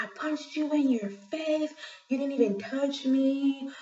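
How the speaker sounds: mock half-hearted, mild mocking shout. Retelling a rear-seat passenger shouting out the door at someone far away, imitating someone yelling. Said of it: "he starts yelling at someone".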